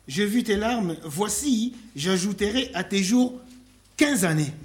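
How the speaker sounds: scripture reading. Real, not acted. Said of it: "Je continue la lecture".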